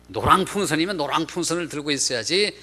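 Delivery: mild mock rebuke; lightly acted indignation; retold scolding. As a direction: imitate someone insisting as they tell off a guide. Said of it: "그렇게 야단을 치더라는 거예요".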